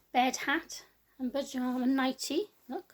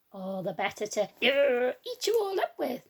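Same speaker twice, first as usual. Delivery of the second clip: wolf pouncing line; 5 dB louder than usual. Acted. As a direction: rise up into the pounce. Wolf's climax.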